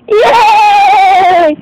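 high laughing cheer; excited yay. Pretend. Fish cheering about going to Morrissey's, high laughing shout. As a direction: squeal it with glee.

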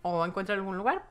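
lightly voiced cop, leaning in to share a secret; confiding policeman. Police officer quietly admits the roommate is unwell, lightly voiced. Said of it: "voltea y me dice".

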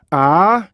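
"아" drawn out long, no K break; 스톱 없는 장모음. Shown as a demonstration. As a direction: stretch "아" as one smooth vowel. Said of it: "윽 이게 안 들어가면은요". ("아"를 윽 없이 길게 늘여서)

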